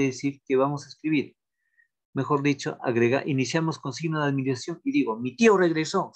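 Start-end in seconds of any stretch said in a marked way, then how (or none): 5.2-6.1 exclamative delivery. Shown as a demonstration. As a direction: say it as news that amazes you. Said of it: "será admiración".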